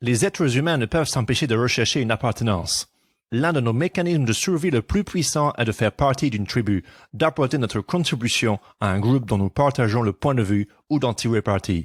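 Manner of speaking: English-accented speech.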